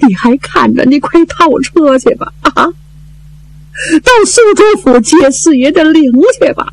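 slow, tearful instructions; crying orders. Acted. Widow orders the steward to fetch the body, slow and tearful. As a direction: give orders while weeping, drawn out. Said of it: "一边哭一边吩咐管家".

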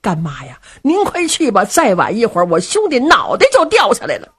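high tearful begging, voice rising; crying plea. Acted. Du Cha to his godmother, tearful begging. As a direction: sob out the urgency. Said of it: "就哭啊".

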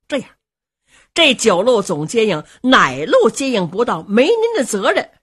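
grin and beg pardon; smiling apology. Acted. Youngest brother apologizing before all heroes, smiling pleading tone. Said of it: "罗成是满面带笑".

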